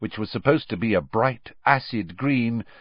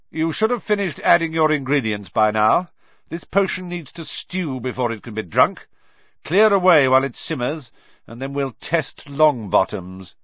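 loud, high, cold announcement; calling out to class; 7 semitones higher, 4 dB louder than usual. A narrator's reading. Snape calling out to the whole class, loud and cold. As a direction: project it across the classroom.

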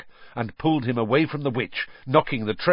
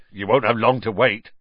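grinning; 5 dB louder than usual. Acted. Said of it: "grinned Hagrid".

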